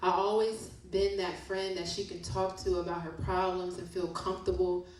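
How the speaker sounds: rhythmic spoken-word reading; poem reading. Acted. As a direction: read it like a poem about fake friends. Reads poem from book.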